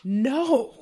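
loud no; emphatic no. Retold or imitated. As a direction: shut him down hard. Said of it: "And I'm like".

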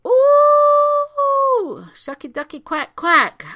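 squeaky high duck voice. Pretend. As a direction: quack it like a silly cartoon duck. Silly quacking duck noises.

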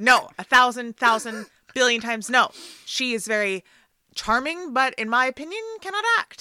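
loud, insistent protest at a casting idea; loud emphatic no. Real, not acted. Co-host floats Meg Ryan, she loudly refuses. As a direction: cut the idea down hard with a loud no.

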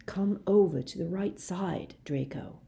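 urgent hushed whisper. Acted. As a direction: breathe it gently to the boy. Dumbledore pleading with Draco.

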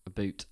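"a boot" said low and soft for "about"; Canadian "about". Shown as a demonstration. Co-host showing how Canadians say about, mock Canadian "a boot". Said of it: "You know what I'm on about".

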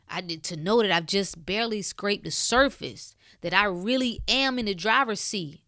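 rising emotion. Real, not acted. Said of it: "I, I get emotional".

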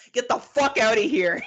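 play-acted indignant yell; mock outrage. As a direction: act out a fed-up date blowing up. Acted angry date storming out.

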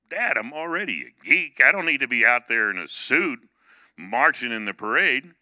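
lightly acted indignant kid; child's protest. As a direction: act out a kid's exasperated complaint. Child protesting to father in retelling.

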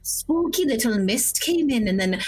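dotty grandmother telling her tale; lightly voiced granny. Lost grandmother telling the party about the mist, light granny voice.

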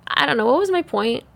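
a little high and spacey; stoned. Real, not acted. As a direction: lose the thread, slightly high. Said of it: "I'm a little high".

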